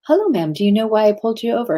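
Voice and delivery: lightly voiced young police officer. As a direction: quote a young traffic cop lightly, lifting the greeting. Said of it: "here's this very young police officer".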